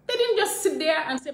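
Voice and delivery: loud, driving emphasis; forceful. Real, not acted. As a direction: hammer the point home. Building to a rallying point.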